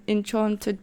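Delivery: "enchanted" with a broad ah, en-CHAHN-ted; Afrikaans-style enchanted. Real, not acted. Vlogger slipping into her home-language habit, Afrikaans-style pronunciation. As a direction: say "enchanted" with the long open vowel of father. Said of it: "did I just say enchanted?".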